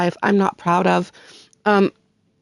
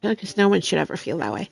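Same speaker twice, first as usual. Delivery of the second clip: fighting through real tears; crying. Real, not acted. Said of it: "I'll stop with the waterworks".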